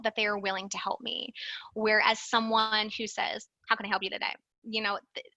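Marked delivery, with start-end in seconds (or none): 3.7-4.4 busy curt greeting. Shown as a demonstration. Receptionist answering while busy, curt and uninterested. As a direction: say it like you'd rather be elsewhere. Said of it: "sends a message that you're busy".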